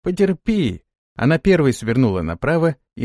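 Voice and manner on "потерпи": calling out. Acted. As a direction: shout encouragement to hold on. Fransi calling to Rada.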